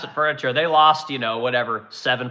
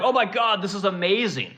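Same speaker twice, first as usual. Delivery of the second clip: mocking awe; 4 semitones higher than usual. Mocking people hyping the Artemis rocket.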